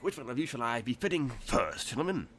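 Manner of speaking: lightly put-on Cockney shopkeeper; hint of Cockney, courting the customers; mild Cockney salesman; Cockney-tinged tailor. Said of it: "he's really Cockney instead of".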